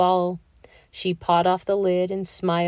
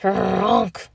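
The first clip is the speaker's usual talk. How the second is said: snore. Acted. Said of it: "he said".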